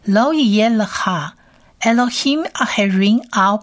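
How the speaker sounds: sentence read at a moderate, slightly slow pace; slightly slow run of Lo yeh lecha; steady read-through. Shown as a demonstration. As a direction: read the whole line through once. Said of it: "整句话来多念几次".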